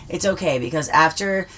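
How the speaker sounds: slow, gentle comforting lie; reassuring. Retold or imitated. Son comforting his dying mom in a movie, slow and soothing. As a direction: soothe a dying mother, slowly. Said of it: "but he says".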